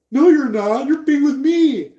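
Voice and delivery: loud, high-pitched acted argument; mock possessive retort. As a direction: play a jealous rival flatly contradicting. Acted quarrel over a partner.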